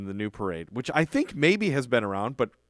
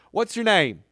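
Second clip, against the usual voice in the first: Southern sassy elf; 7 semitones higher, 4 dB louder than usual. Retold or imitated. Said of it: "he kinda talks like this".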